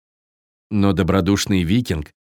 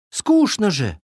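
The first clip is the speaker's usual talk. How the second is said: high fawn whine; offended fawn; 9 semitones higher than usual. A narrator's reading. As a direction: complain in a high little-deer voice. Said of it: "обиделся оленёнок".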